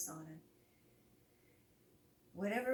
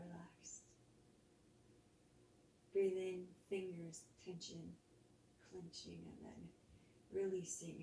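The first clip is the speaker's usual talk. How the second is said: soft guided body scan, exhales whispered; calm yoga teacher voice easing the class into rest; guided relaxation; 4 dB quieter than usual. Acted. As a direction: lead them gently through tensing and letting go.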